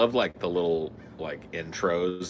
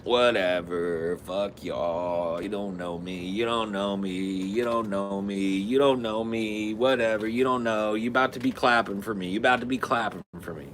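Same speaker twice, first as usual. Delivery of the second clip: defiant guest. Retold or imitated. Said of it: "He's always like".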